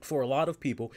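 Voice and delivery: talking through hiccups; hiccuping. Real, not acted. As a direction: hiccups breaking the words. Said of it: "excuse me if I'm hiccuping".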